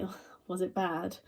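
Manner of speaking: sarcastic. Retold or imitated. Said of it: "senses the sarcasm".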